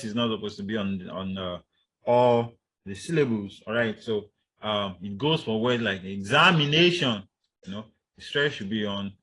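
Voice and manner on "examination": "examination" with a loud push on "na"; stressed A syllable. Shown as a demonstration. Teacher showing where the stress should be, stressed A. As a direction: lean on the A in "examination". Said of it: "on the A and not on".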